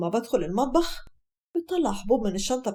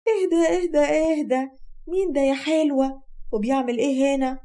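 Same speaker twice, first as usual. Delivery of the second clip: higher, shocked confrontation; outraged accusation; 4 semitones higher than usual. Acted. Mother-in-law catching daughter-in-law with a man, outraged. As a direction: pounce on them with raised pitch.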